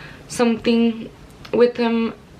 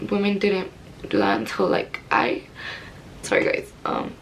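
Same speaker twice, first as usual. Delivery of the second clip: getting emotional; 3 dB quieter than usual. Real, not acted. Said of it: "I did get a little bit emotional".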